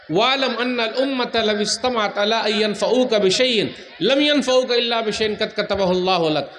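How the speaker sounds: quick, rhythmic recitation of scripture; preacher reciting hadith quickly; Arabic hadith recitation. Acted. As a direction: recite the Arabic text in a steady chant-like flow.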